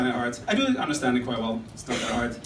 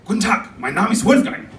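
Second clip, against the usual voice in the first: crisp, louder German introduction; formal German greeting, pitched up; normal German guy; 5 semitones higher, 5 dB louder than usual. Acted. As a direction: introduce yourself firmly in a German accent. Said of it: "say something German like".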